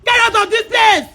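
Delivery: real shouted order to leave; furious, forceful warning; angry order. Real, not acted. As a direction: throw them out with your voice. Ordering someone out in a quarrel.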